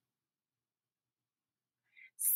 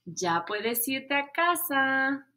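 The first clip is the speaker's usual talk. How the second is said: teacher dismissing; 2 semitones higher, slower than usual. Acted.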